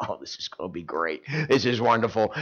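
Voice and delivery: low, soft scheming glee; hushed, up to mischief; gleeful whisper. Retold or imitated. Dad hiding in the closet, gleeful. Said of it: "I'd be sitting there thinking".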